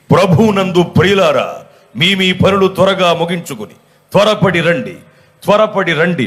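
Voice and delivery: lightly voiced mic announcement; village church announcer. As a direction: call the faithful as a church announcer. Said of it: "mic పెట్టి". (మైక్ ప్రకటన గొంతును కొద్దిగా అనుకరిస్తూ)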